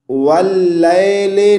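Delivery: वल लैले ending on a long ए; wrong reading. Shown as a demonstration. Teacher imitating the mistake for viewers. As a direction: end लैले on a flat ए. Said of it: "नहीं पढ़ना".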